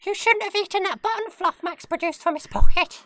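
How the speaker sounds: very high squeaky ferret voice. Pretend. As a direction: squeak back like a ferret student. Ferret voice role play.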